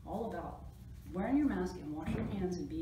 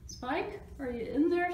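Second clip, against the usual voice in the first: high, raised searching call; 9 semitones higher, 5 dB louder than usual. A narrator's reading. Splat looking for Spike behind a door, calling. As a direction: call through a secret door. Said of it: "Splat called".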